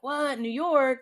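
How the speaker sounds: imitating inmates' high-pitched disbelief; shocked reaction. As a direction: act out the inmates' startled double question. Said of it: "they were shocked".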